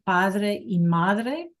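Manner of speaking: "Padre y madre" said very slowly, each word drawn out; slow model pronunciation. Shown as a demonstration. Teacher slowly models "Padre y madre" for the class. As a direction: spell out "Padre y madre" at half speed.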